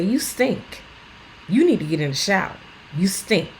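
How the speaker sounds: tough love. Retold or imitated. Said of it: "tough love".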